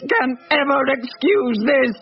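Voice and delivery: indignation swelling line by line; rising outrage. Acted. Outraged at feast while children starve.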